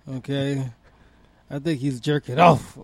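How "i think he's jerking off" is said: imitating T I. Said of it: "like T I said".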